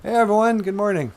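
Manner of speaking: very high, loud character voice; high-pitched sidekick, full volume; character greeting. Acted. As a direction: call out hello, way up high. Character greets audience after introduction.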